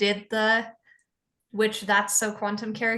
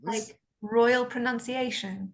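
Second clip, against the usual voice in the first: put-on RP accent; slower than usual. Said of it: "a good R P accent".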